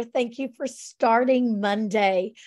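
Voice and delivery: hoarse, scratchy throat; talking with a scratchy voice. Real, not acted. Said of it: "putting up with my scratchy voice".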